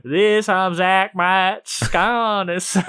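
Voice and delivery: slow, put-on Virginia accent; mock Virginia accent. Shown as a demonstration. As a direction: stretch it out in a lightly hammed-up Virginia accent. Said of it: "That's your native Virginia tongue".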